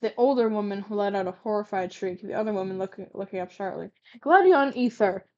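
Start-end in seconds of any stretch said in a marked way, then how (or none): 4.2-5.3 loud, slow scream of a name; mother screaming her son's name in horror. Acted. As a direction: shriek the name in panic. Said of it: "the older woman screamed".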